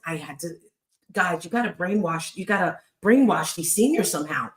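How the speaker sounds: ordinary talk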